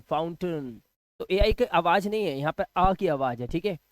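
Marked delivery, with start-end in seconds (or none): 0.0-0.8 फाउंटेन said softly, ending "tun"; correct pronunciation. Shown as a demonstration. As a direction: say फाउंटेन quietly with a reduced ending. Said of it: "आ का sound".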